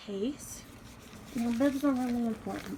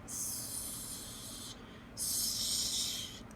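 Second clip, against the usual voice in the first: snake hiss; 8 dB quieter than usual. Pretend. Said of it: "it's a snake".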